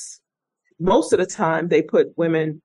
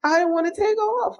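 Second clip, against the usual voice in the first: high, pleading, close to crying; near tears; 14 semitones higher than usual. Retold or imitated. Injured cadet explaining to her supervisor, near tears. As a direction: replay her younger self on the verge of tears. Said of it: "And I almost started crying".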